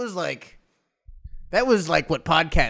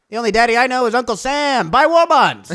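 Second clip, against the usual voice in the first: louder, raised slogan with a laugh; hammed-up propaganda call; mock wartime slogan; 5 semitones higher, 4 dB louder than usual. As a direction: pitch the war bonds like a poster.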